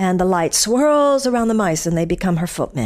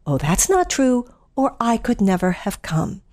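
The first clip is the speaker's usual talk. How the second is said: fairy godmother; 3 semitones higher than usual. Retold or imitated. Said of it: "To which the fairy godmother responded".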